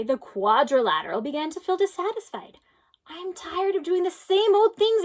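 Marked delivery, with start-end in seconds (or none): 3.1-5.0 higher, whiny grumble; a fed-up grumbling whine; grumbled. A narrator's reading. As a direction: complain like a bored child. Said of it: "it grumbled".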